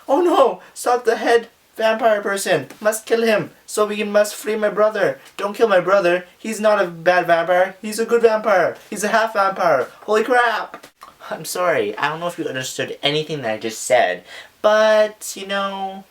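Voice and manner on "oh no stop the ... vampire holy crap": imitating the vampire hunters. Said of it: "They're like".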